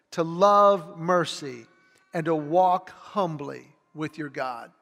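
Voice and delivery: slow, solemn reading of a Bible verse; preacher reading scripture to the congregation, slow and solemn. Acted. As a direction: read each phrase slowly and let it land. Reads Micah 6:8 aloud.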